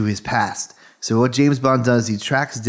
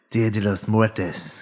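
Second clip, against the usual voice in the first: slow, careful Spanish accent; 2 semitones lower, 3 dB quieter, much slower than usual. Real, not acted. Co-host showing off practiced Spanish to friends, Spanish accent. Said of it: "that was a very good accent".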